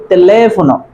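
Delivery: teléfono with stress held on "le"; accented long syllable. Shown as a demonstration. Teacher explaining the tilde to viewers, accented long syllable. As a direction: hold the le in telefono, then fall. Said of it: "that's why it will be".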